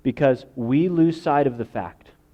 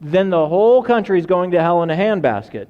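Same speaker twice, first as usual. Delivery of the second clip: fearful worrier; 7 semitones higher, 6 dB louder than usual. Retold or imitated. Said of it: "That's what people who have election infection say".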